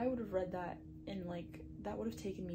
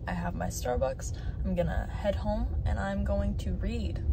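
loud cheery morning; 3 semitones lower, 8 dB louder than usual. Real, not acted.

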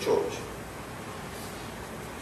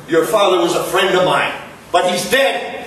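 louder and higher, building to a yell; rising anger; 6 semitones higher, 4 dB louder than usual. Acted. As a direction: drive it home harder and harder. Boss berates employee over father.

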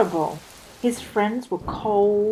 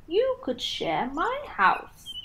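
Tortoise; 8 semitones higher, 5 dB quieter than usual. Acted. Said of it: "Tortoise offered".

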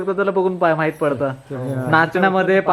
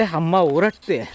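put-on toddler's words; slower than usual. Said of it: "तर विहा म्हणते".

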